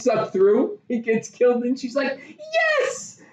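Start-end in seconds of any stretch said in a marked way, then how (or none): 2.8-3.2 high-pitched mock shriek; mock cheer. Retelling her reaction to the plane death, high mock squeal. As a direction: squeal it out, drawn out.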